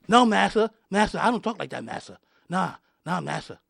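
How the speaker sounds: lightly acted submissive protest; mock servile pleading. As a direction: lightly mimic someone pleading with a master, fading at the ends. Mocking a servile apology to massa.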